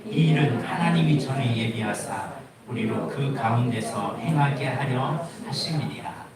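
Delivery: loud, measured reading of scripture to the congregation. Acted. Pastor reading scripture aloud to the congregation, solemn and loud. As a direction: proclaim the verse to the church. Reads scripture before the prayer.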